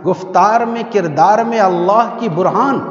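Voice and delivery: slow, measured Urdu verse, stretching the line endings; poetry recital. Acted. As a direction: declaim the couplet with drawn-out rhyme words. Recites the full couplet of poetry. (شعر خوانی، ٹھہر ٹھہر کر)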